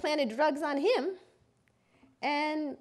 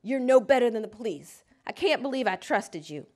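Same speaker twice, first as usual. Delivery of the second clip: retold yell; 3 semitones lower than usual. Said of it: "walks out yelling at me".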